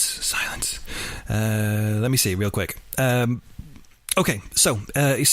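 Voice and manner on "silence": soft whispered silence. Shown as a demonstration. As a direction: breathe the word silence unvoiced. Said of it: "otherwise, it's just silence".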